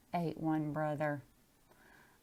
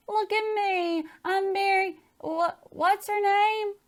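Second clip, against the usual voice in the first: brave holler; 7 dB louder than usual. Acted. Girl stuck on rocks hollers to her teacher, forced bravado. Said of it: "I hollered, trying to sound brave".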